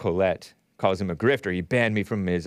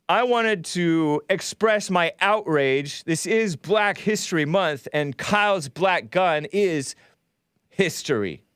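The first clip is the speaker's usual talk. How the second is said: hammed-up indignation, higher and slow; mock outrage; 6 semitones higher, slower than usual. Host faking outrage for a joke, high and slow. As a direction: pretend to be outraged, drawn out and lifted.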